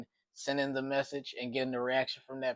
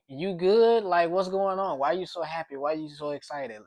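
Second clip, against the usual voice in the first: puzzled question; 4 semitones higher than usual. Retold or imitated. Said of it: "I'm just like".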